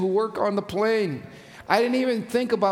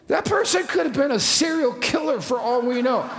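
laughing joke; 5 semitones higher than usual. Real, not acted. Joking about wheelchair pusher.

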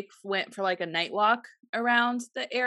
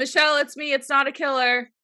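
higher and louder, shouting across the house; calling out; 6 semitones higher, 5 dB louder than usual. Retold or imitated. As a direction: call out reassuringly from another room. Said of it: "he will call out".

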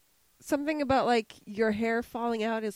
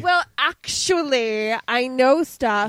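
smug know-it-all; 5 dB louder, slower than usual. Pretend. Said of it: "I'm ashsplaining right now".

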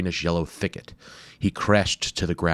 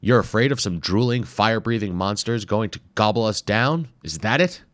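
higher, louder playful mockery; teasing explorer; 4 semitones higher, 4 dB louder than usual. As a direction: needle his friend about monsters. Hayabusa mocks Wimple's fear.

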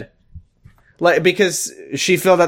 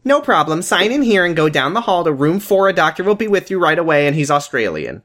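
receptionist voice; 6 semitones higher than usual. Acted.

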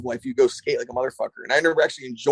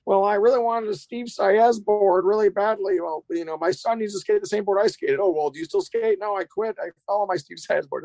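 hammed-up dad who quit skating; clueless dad customer; 7 semitones higher than usual. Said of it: "I get all these dads my age".

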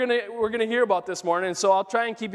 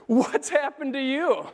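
grave; 6 semitones higher, slower than usual. Retold or imitated. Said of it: "he replied gravely".

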